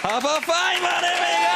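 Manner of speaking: high, bright cheery offer, pushing the cash over; Auntie Pam. Retold or imitated. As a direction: hand it over like a beaming aunt.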